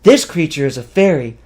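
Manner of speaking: loud, high, gushing squeals; thrilled rush of delight; excited. A narrator's reading. Viet gushing at the sight of a fairy, excited. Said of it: "he spoke excitedly".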